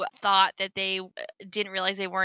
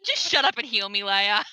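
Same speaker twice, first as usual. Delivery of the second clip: mock fed-up order, slightly raised; imitated irritated retort. Raid leader to nagging healer, mock irritated retort. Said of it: "He'd be like".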